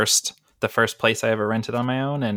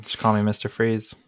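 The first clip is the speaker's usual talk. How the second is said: deadpan. Real, not acted. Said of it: "so deadpan".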